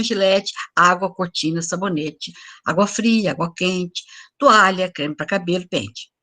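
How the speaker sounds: each noun set apart by a clear pause; reading with the full stops. Shown as a demonstration. Teacher reads the noun-only text to the class, pausing at each point. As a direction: read the word list slowly, stopping at every point. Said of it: "ler também colocando os pontos".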